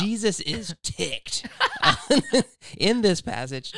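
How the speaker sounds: giggling through the words; laughing. Real, not acted. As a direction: laugh while getting it out. Joking about passage title.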